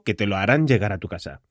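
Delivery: normal talking voice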